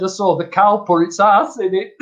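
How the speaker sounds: punchline tipping into laughter; amused punchline. Retold or imitated. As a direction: deliver the joke, cracking up at the end.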